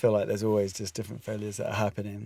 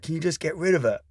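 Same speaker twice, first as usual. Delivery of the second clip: exasperated wife; 6 semitones higher than usual. Retold or imitated. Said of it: "she's like".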